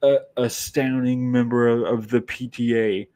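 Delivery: a mildly voiced mother scolding her son; upset mother. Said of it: "she's upset with her son".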